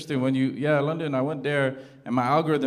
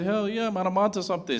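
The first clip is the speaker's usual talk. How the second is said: triumphant; 7 semitones higher than usual. Retold or imitated. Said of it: "I said".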